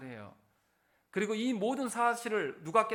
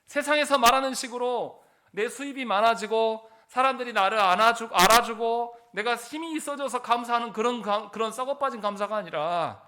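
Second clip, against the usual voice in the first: raised, impassioned sermon voice; higher-pitched, emphatic preaching; forceful preaching; 5 semitones higher, 7 dB louder than usual. Real, not acted. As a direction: press each phrase home to the congregation.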